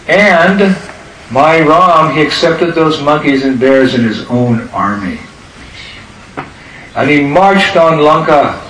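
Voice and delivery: relate the battle like a devotee getting carried away; retold excitement. Ram Bhakta relating Lanka battle to the boys, building excitement. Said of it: "he was getting all excited".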